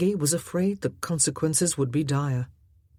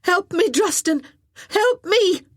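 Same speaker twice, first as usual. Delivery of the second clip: high, loud desperate yell; 14 semitones higher, 6 dB louder than usual. Acted. Glynis hanging off the scaffold yelling to Druston, desperate high yell. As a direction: scream for help as you hang. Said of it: "he heard Glynis yell".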